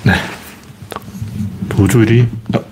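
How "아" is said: usual speaking voice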